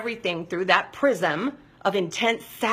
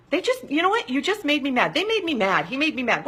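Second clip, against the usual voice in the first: much higher indignant complaint; mock blaming; 7 semitones higher than usual. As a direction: blame everyone like a sulky child. Voicing blaming anger.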